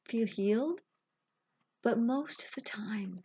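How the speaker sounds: unhurried guided meditation with long pauses; reassuring meditation guide, phrase by phrase; guided visualization. Acted. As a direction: guide a grieving listener gently, leaving space between phrases.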